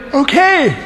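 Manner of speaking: high, laughing okay; eager Abraham. Acted. Abraham eagerly agrees to Sarah's offer, high and giggling. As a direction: chirp it with a giggle.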